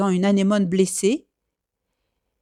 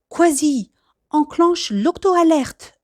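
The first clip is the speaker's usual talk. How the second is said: firm order; 6 semitones higher, slower than usual. Acted. Captain orders Kwasi to sound alert, firm slow command. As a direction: give the order to sound the alarm. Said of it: "ordonne le capitaine Barnacle".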